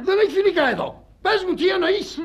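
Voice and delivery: high-pitched jealous outburst; indignant demand. Acted. Husband learning of wife's affair, indignant. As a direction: demand answers, voice shooting up.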